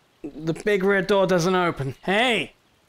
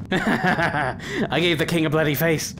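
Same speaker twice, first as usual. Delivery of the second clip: laughing through the words, slow; chuckling with glee at the hit; slower than usual. Real, not acted. Gamer laughing after punching the king in the face.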